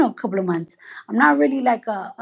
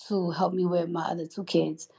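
a whisper aside about paying her cousin; secretive whispered aside; 5 dB quieter than usual. Real, not acted. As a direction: drop to a whisper.

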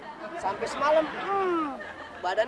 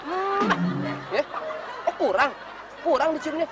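cooing to a pet; 3 semitones lower, 5 dB louder than usual. Acted. Husband coos to his chicken.

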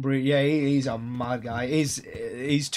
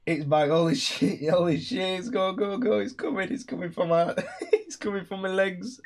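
mock scream; 3 semitones higher than usual. Replaying his own screams, laughing.

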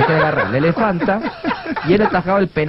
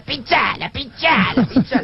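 urgent goading; 6 semitones higher, slower than usual. Acted. Dwarf urges clown to prod elephant.

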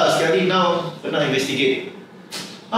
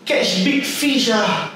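higher, slow gloating over a big sale; mock-thrilled agent; 4 semitones higher than usual. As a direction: ham up a giddy agent who just landed a whale, drawn out. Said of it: "you can imagine the agent doing this".

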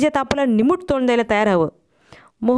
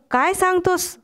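a sudden high cry of disbelief; startled outcry; 7 semitones higher than usual. Acted. On a bus, the narrator cries out at his friend's news. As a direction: blurt it out, shocked, pitched high. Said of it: "ओरडू नकोस".

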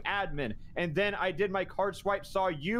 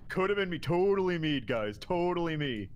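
lightly mocking a friend's deflection; mock Cade impression. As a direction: feign a confession in a lightly put-on voice. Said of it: "I don't think that's a very good impression".

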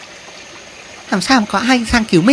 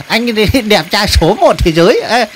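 grateful rescued spider. Acted. Spider praising the handsome mantis rescuer, giggly and grateful. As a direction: gush thanks in a raised little voice.

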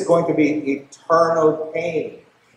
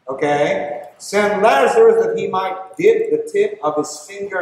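rich man crying out. Retold or imitated. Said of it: "And then he cried out".

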